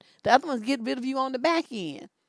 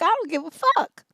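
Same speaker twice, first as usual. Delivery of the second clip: retold fed-up dismissal; 4 dB louder than usual. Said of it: "I'm like".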